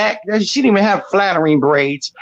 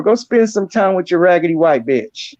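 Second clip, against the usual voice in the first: each word of "raggedy white bitch" leaned on hard and even; emphatic insult. Shown as a demonstration. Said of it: "I'm putting emphasis on that".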